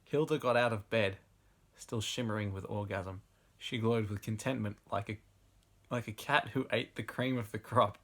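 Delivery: measured read-aloud narration; story narration. A narrator's reading. Reading bad erotic fiction to an audience, story narration. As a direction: narrate the passage like an audiobook.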